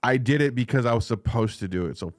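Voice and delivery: a hint of a smug traitor justifying himself; defiant Judas. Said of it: "That's exactly what you'd sound like".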